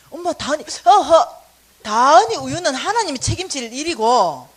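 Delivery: put-on loud, laughing child's plea; laughing mock protest. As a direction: blurt it through laughter. Son's retold protest, laughing.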